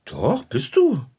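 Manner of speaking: high, drawn-out contradiction; stubborn insistence. Acted. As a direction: contradict slowly, pitch lifted high. Insists in a childish quarrel.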